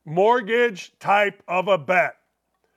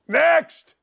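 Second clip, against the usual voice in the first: game show call; 6 semitones higher, 4 dB louder than usual. Acted.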